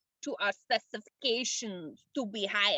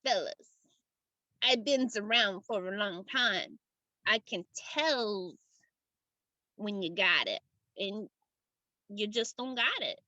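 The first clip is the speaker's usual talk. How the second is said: put-on weary old-hand gatekeeper; 2 semitones lower than usual. Game master voices the gatekeeper.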